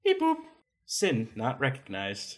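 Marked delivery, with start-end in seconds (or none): 0.0-0.4 high beep then slow robotic voice. Acted. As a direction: scanner machine voice. Scanner machine speaking.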